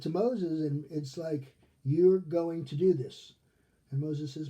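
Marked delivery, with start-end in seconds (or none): 1.8-3.3 slow, louder, emphatic order; firm command. Acted. God ordering a reluctant Moses, acted firm command. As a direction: lay down the law, word by word.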